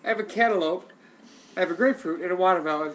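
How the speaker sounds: high, loud mock thinking voice; mock inner voice. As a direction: play the fruit-picking thrower, hammed up. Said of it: "Who goes to the kitchen and goes".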